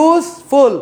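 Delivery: useful split in two as use, ful; teacher sounding out useful by syllable; broken into syllables. Shown as a demonstration. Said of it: "দুইটা syllable".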